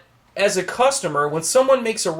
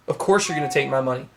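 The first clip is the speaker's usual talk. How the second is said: dropped wry answer; 6 semitones lower than usual. Real, not acted. Answering own question.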